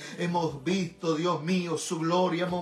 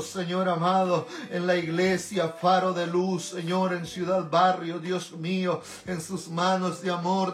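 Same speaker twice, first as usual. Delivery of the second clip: earnest, pleading intercessory prayer; fervent prayer. Real, not acted. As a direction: pray in rolling phrases, calling on God throughout. (oración ferviente de intercesión)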